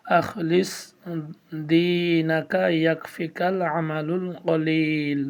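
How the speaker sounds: slow, drawn-out Quranic recitation; recitation reading. Shown as a demonstration. Teacher reading the hadith to viewers in slow recitation. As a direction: recite it slowly and evenly. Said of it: "তৃতীয়তে reading".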